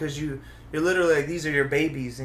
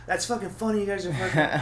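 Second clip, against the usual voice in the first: high-pitched imitation of an indignant comic; mock-indignant scolding; mock attacking comic; 5 semitones higher, 3 dB louder than usual. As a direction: act out berating the audience. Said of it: "Don't attack the audience".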